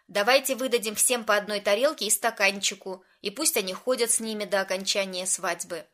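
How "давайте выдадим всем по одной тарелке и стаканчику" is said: ordinary delivery, nothing marked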